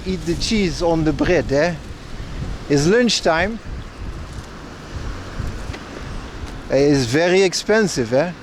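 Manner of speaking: a rusty, half-remembered Dutch accent; a mock Dutch accent, lightly done. Shown as a demonstration. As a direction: try out a Dutch accent, hesitant and unsure. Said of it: "I'm not that good at the Dutch accent anymore".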